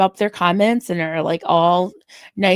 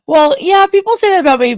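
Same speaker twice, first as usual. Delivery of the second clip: laughing; 10 semitones higher, 7 dB louder than usual. Real, not acted. Laughing at chat comment.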